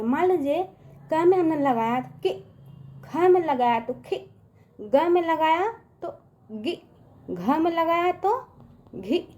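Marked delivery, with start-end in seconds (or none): 2.2-2.3 कि with a quick short i. Shown as a demonstration. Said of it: "उच्चारण ना दूर तक नहीं करते हैं". 4.0-4.2 खि with a brief i; short खि. Shown as a demonstration. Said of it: "उच्चारण ना दूर तक नहीं करते हैं". 6.5-6.8 गि with a brief i; short गि. Shown as a demonstration. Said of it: "उच्चारण ना दूर तक नहीं करते हैं". 8.9-9.3 घि with a brief i; short घि. Shown as a demonstration. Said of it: "इस तरह से बच्चों उसका उच्चार करते हैं".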